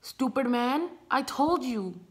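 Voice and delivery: acted-out annoyance at a stranger; retold fury. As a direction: tell him off, a touch angry. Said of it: "I'm furious".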